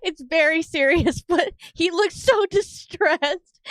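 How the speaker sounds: high-pitched, laughing through the words; real laughter breaking into speech; trying not to laugh. Real, not acted. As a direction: talk while fighting down giggles. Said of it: "I should not laugh".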